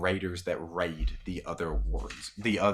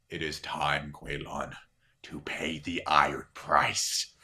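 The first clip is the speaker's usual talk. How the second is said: put-on ominous old man; 5 semitones lower, slower than usual. Old raider speaking ominously.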